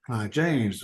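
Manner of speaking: slow, blocked-nose impression; drawn-out, nose-blocked celebrity voice; Clive James. Shown as a demonstration. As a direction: imitate a broadcaster with the nose blocked off. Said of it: "another one where you block your nose off".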